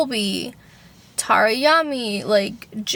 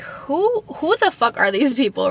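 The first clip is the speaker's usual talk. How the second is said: high squeak on who, then baffled; mock disbelief, jumping high on the first word; incredulous squeak; 3 semitones higher than usual. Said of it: "And so I was like".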